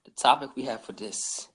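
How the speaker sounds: slow American-accented host intro. Real, not acted. Host announcing the evening's topic to listeners, American accent. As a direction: introduce it slowly with an American twang. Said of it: "when did man become American?".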